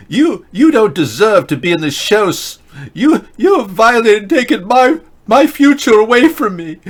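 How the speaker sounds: rising high, loud hammed-up outrage; mock Greta tirade. Host rants at troll as mock Greta, building high and loud. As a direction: climb into a shrieking mock grievance.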